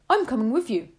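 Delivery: put-on boy mouse chewing as he speaks; mouth full. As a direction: say it while chewing. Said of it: "speaking with his mouth full of banana".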